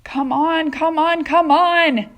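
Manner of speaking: rising, loud, high repeated demand; impatient shout. Acted. Centipede badgering the glowworm, impatient high shout. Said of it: "shouted the centipede".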